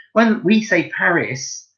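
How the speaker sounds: "Paris" said the English way, with the final S. Shown as a demonstration. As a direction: say "Paris" the English way, the S sounding at the end. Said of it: "they don't pronounce the S".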